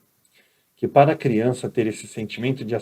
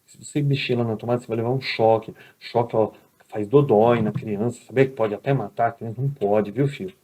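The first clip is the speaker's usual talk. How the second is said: tender mother; 3 semitones lower than usual. Retold or imitated. Mother gently explaining the shock to her son, tender. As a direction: coax the little one kindly. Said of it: "tem que chegar com amor".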